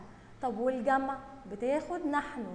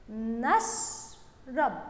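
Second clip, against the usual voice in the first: نشرب very slowly, نش held, then a pause before رب; slow syllabic reading; much slower than usual. Shown as a demonstration. Teacher reading along with pupils, نشرب slow and in syllables. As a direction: split نشرب into two drawn-out syllables. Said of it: "يلا نقرأها مع بعض".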